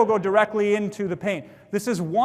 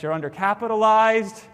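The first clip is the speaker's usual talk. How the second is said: tiptoeing. Shown as a demonstration. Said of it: "I used to say it kinda like this".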